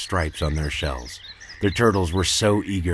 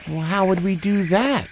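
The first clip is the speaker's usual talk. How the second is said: much higher put-on voice, confused; puzzled tiger voice; 11 semitones higher than usual. Tigus asking Zeeby how, in high tiger voice. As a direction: ask it as the baffled tiger. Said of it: "he asked".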